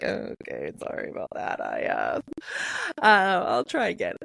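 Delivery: sheepish apology. Retold or imitated. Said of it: "And it's like".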